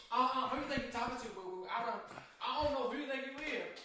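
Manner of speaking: playful neck-roll attitude; mock sassy woman. Imitating an angry woman telling someone off.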